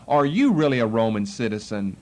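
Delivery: skeptical question with YOU jumping up, then dropping; disbelieving. Shown as a demonstration. Captain wrongly read as doubting Paul, disbelieving. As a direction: doubt him, hitting "you" hard. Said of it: "said in this tone of voice".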